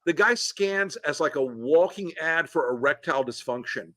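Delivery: put-on light gruff Brooklyn Bernie Sanders accent; a hint of Bernie's Brooklyn growl, lecturing; Bernie impression. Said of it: "that's a pretty good Bernie impression".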